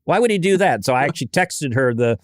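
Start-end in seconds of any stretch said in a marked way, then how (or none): 0.0-0.8 surprised daughter. Retold or imitated. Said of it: "She's like".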